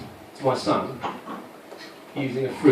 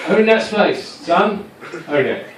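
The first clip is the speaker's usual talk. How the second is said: mild mock sideline call; 4 semitones higher, slower than usual. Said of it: "my own catchphrase I have is".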